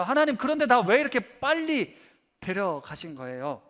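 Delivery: a touch of hurt indignation, half-acted; pleading complaint that rises in places; aggrieved protest. Martyred James arguing with God over his early death, mildly indignant. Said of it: "이렇게 충분히 따지셨을 겁니다".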